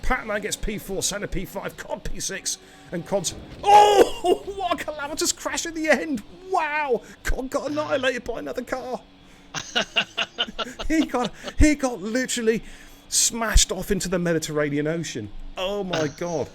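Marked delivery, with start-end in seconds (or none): 2.9-12.6 high, laughing through the words. Real, not acted. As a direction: crack up while calling it. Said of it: "I can't stop laughing".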